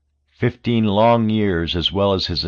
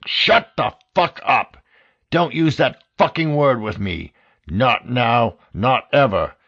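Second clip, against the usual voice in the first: enraged director shouting; furious yell; 4 semitones higher than usual. A narrator's reading. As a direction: blast him down the phone. Director yelling at agent.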